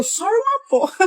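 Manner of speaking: laughing retort. Retold or imitated. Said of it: "Aí eu".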